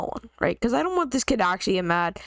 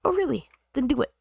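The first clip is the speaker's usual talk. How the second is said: taunting dare; 4 semitones higher, faster than usual. Retold or imitated. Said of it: "threaten them a little bit".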